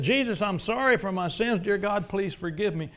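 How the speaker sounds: loud, high urgent prayer; fervent preached prayer; impassioned plea. Acted. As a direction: press the listener to say it. Models the prayer forcefully.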